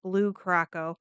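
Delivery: Curacao in Blue Curacao said as "kuh-ROCK-oh"; common mispronunciation. Shown as a demonstration. Naming a favorite drink, Curacao pronounced "kuh-ROCK-oh". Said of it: "it's not really Blue Curacao".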